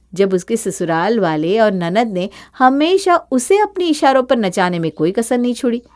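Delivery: even narrator voice; story narration. A narrator's reading. Narrator explains Varsha's new power, calm narration. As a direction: tell the twist calmly.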